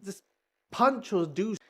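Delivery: a touch of an impatient hero fed up; exasperated Green Arrow. Retold or imitated. Green Arrow nagging Supergirl and Kong, mildly exasperated. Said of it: "Green Arrow saying".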